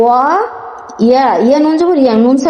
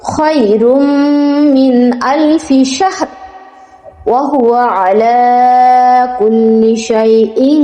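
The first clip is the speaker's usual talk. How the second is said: split in parts; slower than usual. Shown as a demonstration. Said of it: "এক নিঃশ্বাসে পড়তে যাই".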